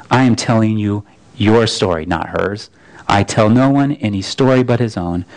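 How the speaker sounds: a vast voice laying out the whole story; Aslan's voice. Acted. The lion tells Shasta his own story, low and solemn. The Voice rebukes gently.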